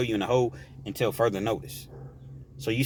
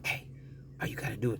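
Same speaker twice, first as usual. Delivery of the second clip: softer, hushed phone whisper; mock whisper; 2 semitones lower, 12 dB quieter, faster than usual. Inmate hiding his words on the phone, hushed. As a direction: hush it like you fear being heard. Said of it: "try to whisper".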